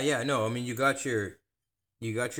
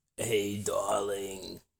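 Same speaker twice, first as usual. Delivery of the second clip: voice of a woman who has smoked for decades; 3 semitones lower, 4 dB quieter than usual. Speaker joining a bit about pretending to be a lady who smoked 50 years: lady who smoked 50 years. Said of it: "pretend like I'm a lady is like a woman who smoked for like 50 years".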